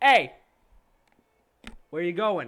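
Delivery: very loud, high, booming voice. Game narrator voicing a bladesmith calling after someone hobbling away, booming voice. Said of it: "his voice kind of booms".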